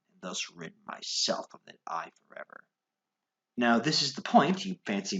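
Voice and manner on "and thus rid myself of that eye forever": soft whisper. Acted. Murder plan.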